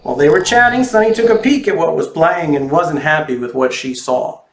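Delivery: put-on lively storybook reading for kids; reading to children. A narrator's reading. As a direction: read it like a picture book to little ones. Reads picture book to children.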